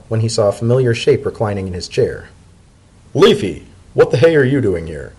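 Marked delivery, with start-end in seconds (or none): 3.1-5.1 surprised cry of the name; startled. Acted. Startled Dotted finds Leafy in his chair, surprised. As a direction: caught off guard, blurting it out.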